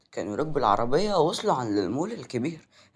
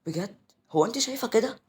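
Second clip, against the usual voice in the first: nervous; 8 semitones higher than usual. Acted. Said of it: "قالت بتوتر".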